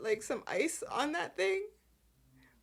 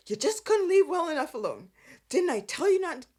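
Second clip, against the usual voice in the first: raised, higher-pitched mock telling-off; acted-out reprimand, pitched up; retold scolding; 4 semitones higher, 4 dB louder, faster than usual. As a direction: scold him in a louder imitated voice. Retold police officer scolding Nick.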